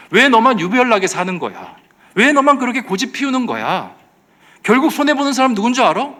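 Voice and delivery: high, loud taunting questions; acted goading. The world taunting a believer for holding out, high goading.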